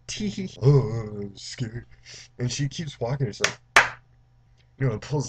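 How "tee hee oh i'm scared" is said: lightly voiced giggly kid, drawn out; mock a little girl's tee-hee and fright; playful scared girl. Little girl playing blindfolded, acted.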